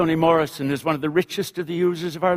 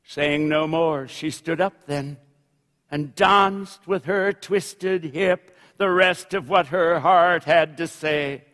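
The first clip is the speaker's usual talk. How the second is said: literary reading. A narrator's reading. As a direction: settle down, then lift to the close. Reads novel narration aloud.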